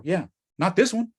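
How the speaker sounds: this lifted in pitch; stress on this. Shown as a demonstration. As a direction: hit the word "this". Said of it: "self-answer".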